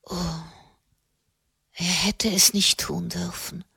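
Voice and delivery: a soft unvoiced whisper. A narrator's reading. Katharina whispering the reproach again to herself. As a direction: repeat it as a bare whisper.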